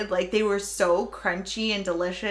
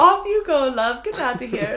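mock British accent; 4 semitones higher, 3 dB louder than usual. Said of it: "she goes".

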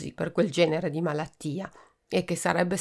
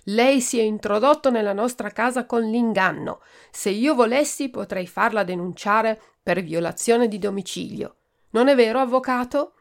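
loud, higher, righteous scolding; indignant rebuke; 4 semitones higher, 5 dB louder than usual. Acted. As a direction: berate the intruder. Donna Seconda berates the doctor. (donna Seconda rimprovera il dottore, indignata)

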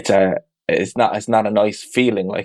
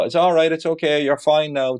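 lightly acted reassurance, pitched higher; higher-pitched mock comforting; reassuring a child; 5 semitones higher than usual. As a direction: gently reassure an upset kid, imitating yourself as parent. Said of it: "Just try and reassure them".

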